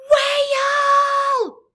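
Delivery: high, loud held shout. A narrator's reading. Crab stopping the giant whale, shouting. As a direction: call the whale out, loud and long. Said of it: "Crystal shouted".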